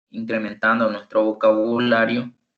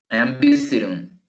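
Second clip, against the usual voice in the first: visiting with a strong VIS in the sentence; stress on first syllable. Shown as a demonstration. Teacher models a sentence for students, first-syllable stress on visiting. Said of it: "El acento está en la primera sílaba".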